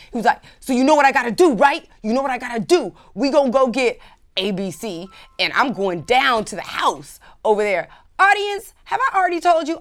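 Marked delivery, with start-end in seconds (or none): 0.6-7.9 mad guy. Retold or imitated. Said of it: "he was so mad".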